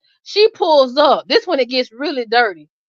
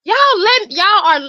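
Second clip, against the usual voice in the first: very high, slow astonished question; high, slow incredulous question; stunned disbelief; 11 semitones higher than usual. Retold or imitated. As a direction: draw it out, shocked. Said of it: "I'm like".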